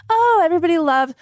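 sarcastic imitation of a friend gushing; mocking impression. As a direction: mimic her fake-sweet public persona. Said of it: "Please don't do that impression of my face".

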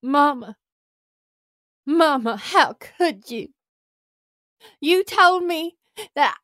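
overwrought tearful plea to mama; grand tragic wailing. Acted. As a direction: melodramatic pleading, rising to anguish. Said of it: "dramatic monologues".

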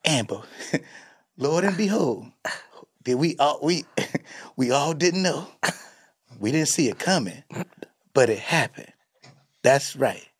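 lightly voiced solemn narrator; a hint of a grand documentary telling; impression of Coodie. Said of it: "'Cause he was like".

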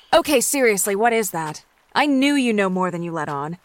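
playfully panicked pushing; fake hysteria. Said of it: "in mock hysteria".

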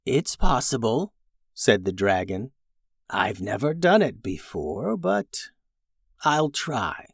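quiet, thoughtful dragon; soft, hesitant dragon. Acted. Dragon voiced by reader.

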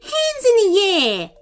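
high, commanding yell; robber's yell. A narrator's reading. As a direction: bark a hold-up order. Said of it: "yelled Nin the robber".

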